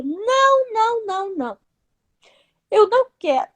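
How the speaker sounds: reliving a crying refusal, pitched high; tearful pleading. Retold or imitated. Woman refusing the voice's verdict, tearful pleading. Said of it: "e comecei a chorar".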